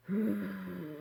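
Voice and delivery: imitating a guttural breath. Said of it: "like that".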